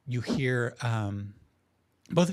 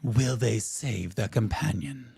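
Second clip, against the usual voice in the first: slow, suspenseful announcer question; theatrical teaser read; announcer's dramatic tone; slower than usual. Acted. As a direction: draw out the cliffhanger. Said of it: "his tone change. He goes".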